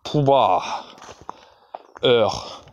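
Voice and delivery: short, terse words, last one breathed out; a mild curt command voice. A narrator's reading. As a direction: bark out each word briefly. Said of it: "il parla d'un ton bref".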